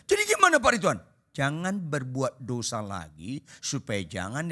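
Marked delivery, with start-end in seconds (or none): 0.1-1.0 tanya spontan. Retold or imitated. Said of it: "Langsung dia tanya".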